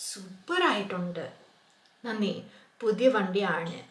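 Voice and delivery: cheerful role-play of two friends; lightly acted dialogue. Teacher acting out two friends admiring a new car.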